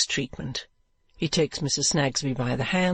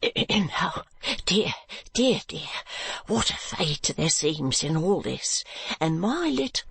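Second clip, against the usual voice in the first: flustered dismay; 4 semitones higher, slower than usual. Acted. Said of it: "power of speech deserts him".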